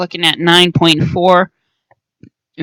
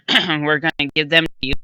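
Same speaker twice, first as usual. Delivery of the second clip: hoarse. Real, not acted. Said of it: "I'm a little hoarse at the present moment".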